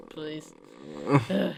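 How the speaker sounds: a hint of a grumpy old professor; college professor. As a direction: grumble about kids these days. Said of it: "You sounded exactly like him".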